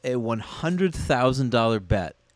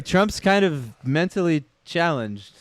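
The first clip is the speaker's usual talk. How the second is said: slower, each word placed carefully; slow careful rephrase; 4 semitones higher, slower than usual. Shown as a demonstration. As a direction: choose the words slowly and carefully. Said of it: "Uh, sorry".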